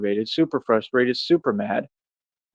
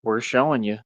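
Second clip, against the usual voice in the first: mock smug; 5 dB quieter than usual. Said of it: "looking at me like".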